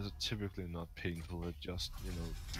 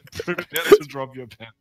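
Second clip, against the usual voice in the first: louder, higher, fast hammed-up menace; mock threat; 10 semitones higher, 19 dB louder than usual. Jokingly threatening his friend over Linux, loud mock menace. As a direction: threaten him for laughs.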